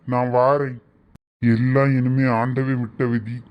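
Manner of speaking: slow, low pronouncement of a sage; solemn holy man. Acted. Holy man refusing a couple his blessing, slow and solemn. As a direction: refuse the blessing slowly and weightily.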